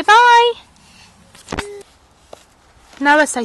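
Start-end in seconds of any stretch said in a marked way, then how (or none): 0.0-0.5 put-on high, slow, loud baby-talk prompt; sing-song demo for a toddler. Shown as a demonstration. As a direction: model the words slowly for a small child.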